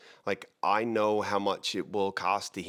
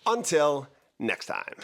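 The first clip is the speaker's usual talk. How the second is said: hammy outro; 7 semitones higher, 4 dB louder, slower than usual. Shown as a demonstration. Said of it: "Let's try that again".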